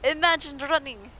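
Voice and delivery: high-pitched indignant disbelief; incredulous. Pretend. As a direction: scold the guards for fleeing. Scolding guards who ran away.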